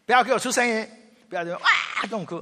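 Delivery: loud, fast scolding order; wife forbids crying. Retold or imitated. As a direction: hush the child sharply. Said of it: "在那边一面哭这样".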